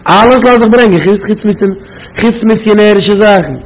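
high-pitched mock indignation; mock yelling. Objector accusing someone of missionary material, mock yelling. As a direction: act out a protester's outburst. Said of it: "und einer schreit".

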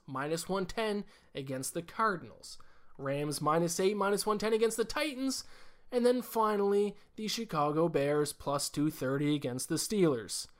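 oversell every pick like a morning-radio host; Johnny Broadcast voice. Pretend. Podcaster hams up his weekly picks for listeners, booming announcer voice. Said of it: "so focused on doing this voice".

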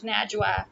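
"Najwa" with flat a's as in cat; mangled Najwa. Retold or imitated. Complaining how others say her name, mimicked mispronunciation. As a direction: flatten "Najwa" to NAJ-wa with a j. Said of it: "it becomes".

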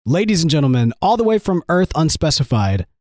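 a touch of ring announcer; lightly hammed-up show introduction. Host introduces the new Wells like a mock announcer.

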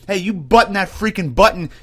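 a hint of a drill sergeant correcting troops; lightly voiced NCO barking at a sloppy soldier; strict sergeant. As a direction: sergeant chewing out a soldier about his uniform. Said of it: "No, it is".

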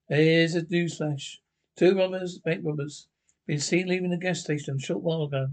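put-on old radio announcer. Radio newsflash read.

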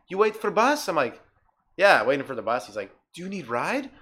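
put-on broken-English Indian accent, offering a ride; mock Indian accent. Stranger offers the teen a ride, mild Indian accent. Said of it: "This fucking Indian guy".

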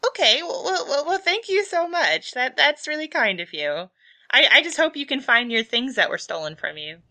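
high, flustered grateful cashier; laughing, flattered clerk; shopkeeper voice. Acted. GM voicing Shirley.

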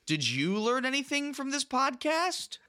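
high, odd outro read; oddly put-on host voice; weird host voice. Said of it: "Why did you both say it so weird?".

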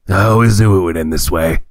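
spooky ghostly voice; doom-laden ghost voice; low haunting voice. Pretend. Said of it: "I have a ghost voice".

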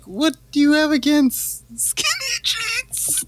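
high, slow, put-on voice defending skinny jeans; mock offended. Defending skinny jeans to Gen Z, high and slow mock outrage. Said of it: "And I was like".

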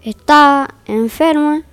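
calm, even fairy-tale reading voice; story narration. A narrator's reading. Narrator opening the tale for listeners, in storytelling voice. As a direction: read it like a bedtime story.

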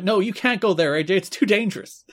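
high-pitched imitated plea; pleading. Commentators begging the wrestler to stay, pleading. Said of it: "I like Mike and Don pleading".

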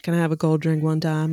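slurred Cajun, words run together in one long word; Cajun drawl. Shown as a demonstration. Showing friends how a Cajun man blends the order, Cajun slur. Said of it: "You have to do it with that, like, Cajun".

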